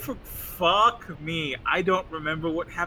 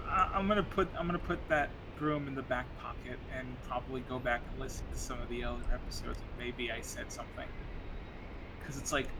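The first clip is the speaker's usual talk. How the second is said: bluetooth cutting out; 5 semitones lower, 7 dB quieter, faster than usual. Real, not acted. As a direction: voice dropping out on a bad mic. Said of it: "You keep cutting out".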